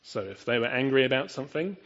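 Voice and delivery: ordinary talk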